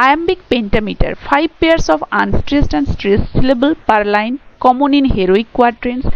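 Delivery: reads English text very slowly, word by word; slow dictation reading. Shown as a demonstration. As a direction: dictate it slowly for students to copy. Reads English textbook definition aloud. (ধীরে ধীরে ডিক্টেশনের মতো পড়া)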